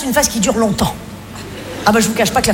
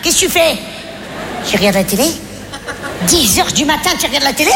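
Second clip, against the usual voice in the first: nagging wife. Acted. Nagging wife scolding husband.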